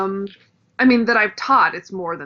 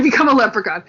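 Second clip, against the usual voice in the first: laughing; 3 semitones higher, 5 dB louder than usual. Real, not acted. Joking about leprechaun caricature.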